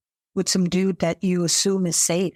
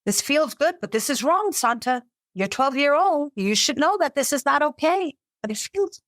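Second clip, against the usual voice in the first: put-on higher, torn inner voice of a young girl; a survivor voicing her younger self's confusion, raised pitch; conflicted inner voice; 5 semitones higher than usual.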